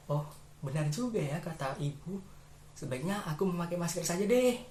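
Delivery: lightly voiced child, thinking aloud; child realising. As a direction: come round to it as a child. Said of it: "anak itu pun berpikir".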